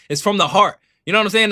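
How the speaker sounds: ordinary talk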